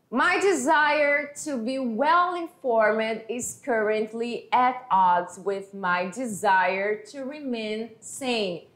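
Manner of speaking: slow, careful English read-aloud. Shown as a demonstration. Teacher reading the cartoon line to students, slow and careful. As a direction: read each word slowly for the class. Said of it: "a gente encontra a seguinte situação".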